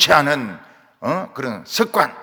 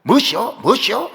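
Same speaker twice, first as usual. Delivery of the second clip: mock Jeolla dialect, a bit louder; Jeolla dialect quarrel; 5 semitones higher, 5 dB louder than usual. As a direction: argue like a Jeolla local. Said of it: "전라도 사투리로 싸우더라고요".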